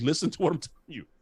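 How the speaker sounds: put-on choked-up delivery. Retelling pleading with his son at the Super Bowl: retelling own choked-up plea. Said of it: "as I'm choking up".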